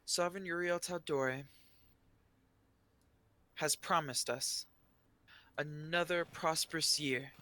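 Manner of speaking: lightly voiced shy official at a podium; shy arcanist. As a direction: proclaim it with long pauses between phrases. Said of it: "she's looking a little, little shy".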